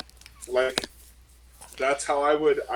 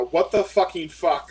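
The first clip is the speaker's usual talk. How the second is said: mock yell; 3 semitones higher, 4 dB louder than usual. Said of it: "I'm gonna be yelling at someone".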